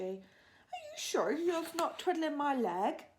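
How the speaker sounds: slow, wondering giant. A narrator's reading. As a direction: draw it out unsure. BFG asks, unsure.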